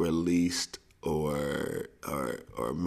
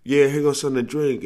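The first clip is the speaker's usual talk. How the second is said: smooth host; 8 semitones higher, 7 dB louder, faster than usual. Retold or imitated. Boys serving drinks.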